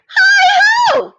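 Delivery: high, loud "Hi ho!" called from the door; cheery call. Acted. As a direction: hail them from the doorway. Hare calls out arriving.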